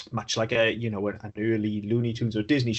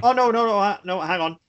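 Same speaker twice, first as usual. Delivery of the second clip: high, louder burst of backtracking; sudden correction; 8 semitones higher, 4 dB louder than usual. Real, not acted. Co-host corrects a misread fact, sudden alarmed backtrack. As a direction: catch your own mistake and cut in urgently.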